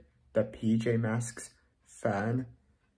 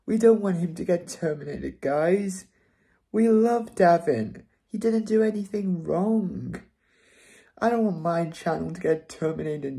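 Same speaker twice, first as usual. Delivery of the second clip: real upset pleading, higher and louder; 5 semitones higher, 3 dB louder than usual. Real, not acted. Young fan to viewers about terminated channel, upset higher pleading. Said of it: "I'm a little upset".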